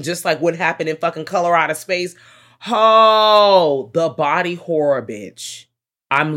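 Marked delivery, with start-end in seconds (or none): 2.7-3.9 loud, higher, long-held exclamation; horrified "oh". Real, not acted. Film fan recalling the body horror, loud drawn-out groan. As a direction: wail one long "oh" at the horror.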